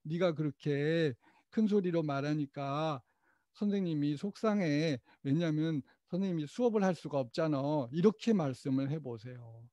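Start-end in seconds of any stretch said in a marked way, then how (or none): 0.0-7.9 calm I-message. Shown as a demonstration. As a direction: tell the child how you feel, quietly. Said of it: "선생님의 마음을 전달을 해주시는 거야".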